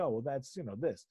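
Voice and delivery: softly, half-imitating a nonchalant dad; mock calm reply. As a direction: play it cool and unbothered, a touch hushed. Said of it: "Very calmly, very nonchalantly".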